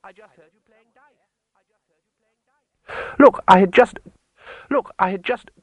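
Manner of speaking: insistent high call with repeating echo. Acted. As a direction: call out to someone hidden, echoes fading. Calls to unseen person, echoing.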